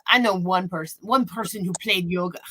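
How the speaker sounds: lightly imitated European accent; thick European accent. Doctor dismissing yoga to patient, light European accent. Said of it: "some sort of thick European accent".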